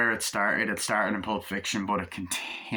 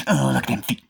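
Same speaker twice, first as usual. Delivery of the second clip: louder, higher sudden exclaim; surprised aside; 4 semitones higher, 6 dB louder than usual. Real, not acted. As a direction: caught off guard by something. Sudden distraction by feet on screen.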